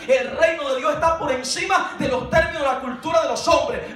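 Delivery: emphatic proclamation building to a shout; fervent sermon climax; impassioned preaching. Acted. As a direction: drive it up to a triumphant pulpit cry. Preaches at full force.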